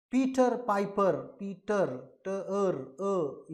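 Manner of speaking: "पीटर पाइपर" announced clearly, then broken down to "ट, अर, अ"; sounding out syllables. Shown as a demonstration. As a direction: peel "पीटर" down to its final "अ" vowel. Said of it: "इसका भी उच्चारण अ है".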